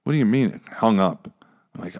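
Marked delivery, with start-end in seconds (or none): 0.0-0.5 half-asleep confused voice, trailing very soft then rising; lightly acted groggy confusion; just woken up. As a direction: sound roused from sleep, lost and fumbling. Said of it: "coming out of a sleep".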